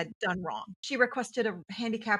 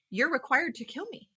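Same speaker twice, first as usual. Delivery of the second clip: voiced vendor accusation; 5 semitones higher than usual.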